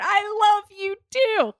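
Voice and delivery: high, slow, soppy phone voice; mock-tender high phone farewell; Malcolm on the phone. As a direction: coo it down the line like Malcolm.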